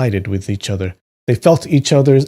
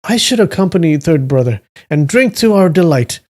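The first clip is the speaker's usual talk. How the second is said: higher tipsy voice; Suju, tipsy; 6 semitones higher, 3 dB louder than usual. A narrator's reading. Drinker joining third brother for more wine, tipsy. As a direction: agree merrily through the wine. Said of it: "You like my drunk voice?".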